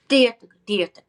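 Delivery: "Diatic, diatic" sung out high and loud, syllables mushy; muffled articulation. Retold or imitated. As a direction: imitate a student's muffled "Diatic, diatic" tonguing. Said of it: "people play sometimes".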